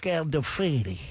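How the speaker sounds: lightly imitated actor's name, said in his voice; a hint of the famous actor introducing himself; Gandolfini. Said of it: "Was he doing the voice?".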